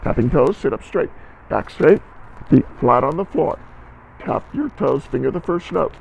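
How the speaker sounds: rally the students before playing; loud teacher instructions. Shown as a demonstration. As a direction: band teacher calling posture cues. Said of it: "Here we go".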